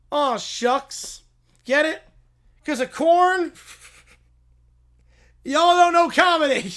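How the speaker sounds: hammed-up corny catchphrase. Farmhand cracking his corn joke, hammy and loud. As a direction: sell the corn pun like a hayseed comic.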